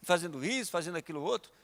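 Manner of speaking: put-on poor-me complaint; mock lamenting. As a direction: imitate someone feeling sorry for himself. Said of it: "Você vai sair lamentando?".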